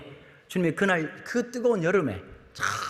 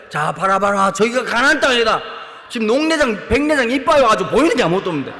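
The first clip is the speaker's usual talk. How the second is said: put-on old Moses; 7 dB louder than usual. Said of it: "막 이러는데".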